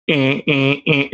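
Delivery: short, repeated mock "eh"; imitated "eh" noise. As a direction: imitate someone's verbal tic, "eh" after "eh". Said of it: "That's what it sound like?".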